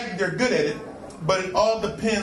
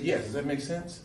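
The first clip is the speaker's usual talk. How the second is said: Bill Cosby voice; 5 semitones lower, 9 dB quieter than usual. Retold or imitated. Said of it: "And he said".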